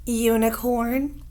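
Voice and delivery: "Unicorn" said slowly, syllable by syllable; slow model word. Shown as a demonstration. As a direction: stretch out "Unicorn" for learners. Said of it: "Say the word unicorn".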